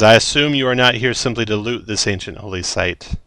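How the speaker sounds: commanding giant, loud but lightly voiced; a touch of booming, contemplative authority; booming storm giant. Storm giant confronts looters at the holy site, mildly booming. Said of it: "In a booming voice".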